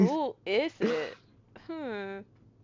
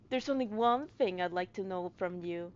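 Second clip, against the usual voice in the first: Sholmes; 5 semitones lower, 11 dB quieter than usual. Acted. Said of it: "try my best to be Sholmes".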